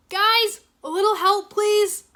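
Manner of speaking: high, loud plea; crying out for help. Acted. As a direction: call out desperately while drifting. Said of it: "Cole cried".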